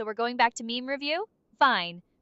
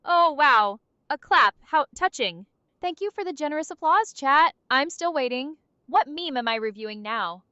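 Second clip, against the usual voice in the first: sarcastic; 4 dB louder than usual. Pretend. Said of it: "In a monotone, sarcastic voice".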